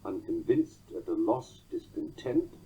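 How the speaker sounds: "unconvinced at a loss, discontent" beating VINCED, LOSS, TENT; three titty-TUM feet in "unconvinced at a loss, discontent"; measured "unconvinced at a loss, discontent", every third syllable stressed; anapestic beat. Shown as a demonstration. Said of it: "a trimeter of nine".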